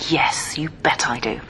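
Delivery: giggly whisper. Acted. Giggling confession.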